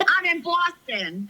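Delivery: put-on playful drawn-out Boston accent. Joking with co-hosts about being in Boston, mock Boston accent. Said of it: "I'm talking like 'em".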